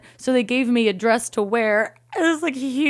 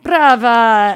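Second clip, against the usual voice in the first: loud, drawn-out mock cheer; imitated audience acclaim; crowd's bravo; 4 semitones higher, 10 dB louder than usual. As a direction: call out applause like a diner. Retold diners applaud the singer.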